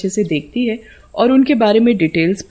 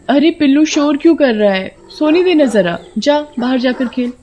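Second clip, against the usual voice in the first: higher-pitched annoyed telling-off; mild scolding; 6 semitones higher than usual. Acted. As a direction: shoo away a noisy pet. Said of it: "मैंने उसे डांट दिया था". (चिढ़कर हल्की डांट)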